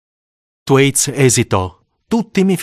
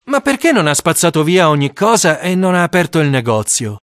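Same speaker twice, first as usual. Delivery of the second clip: put-on boy's voice; 6 semitones higher than usual. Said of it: "chiesi io".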